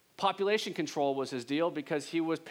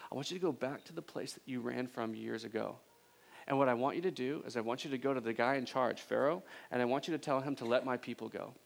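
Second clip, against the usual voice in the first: a hint of God speaking calmly from the bush; 2 semitones lower than usual.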